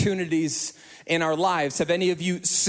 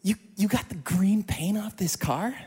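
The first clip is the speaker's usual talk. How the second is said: high, stammering amazement; stunned disbelief; 3 semitones higher than usual. Retold or imitated. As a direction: sputter it out in shock. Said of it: "He goes".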